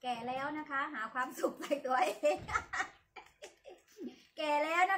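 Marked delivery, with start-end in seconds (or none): 1.6-2.4 laughing. Real, not acted. Laughs at her own joke. 3.1-3.7 soft laugh. Real, not acted. Laugh after joke.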